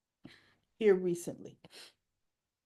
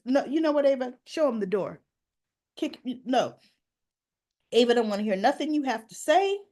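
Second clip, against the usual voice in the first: louder, sharp retort for the client; indignant lawyer; 2 semitones higher, 6 dB louder than usual. Retold or imitated. Lawyer Rick snapping at Sonny, louder retort. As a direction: bark it like a protective lawyer.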